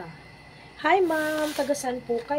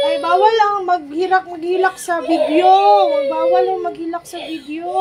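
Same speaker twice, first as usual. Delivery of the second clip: loud, higher, urgent telling-off; real loud scolding; 3 semitones higher, 10 dB louder than usual. Real, not acted. Mother scolds crying child during live.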